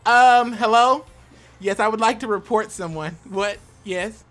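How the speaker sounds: hammed-up caller reporting someone to HR; playful fake complaint call; mock complainant. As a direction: start high and loud, like an indignant caller.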